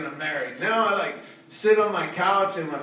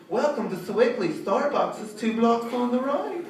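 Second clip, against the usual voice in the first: posh GPS voice; 6 semitones higher than usual. Retold or imitated. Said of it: "the type of voice that's indicative of the neighborhood".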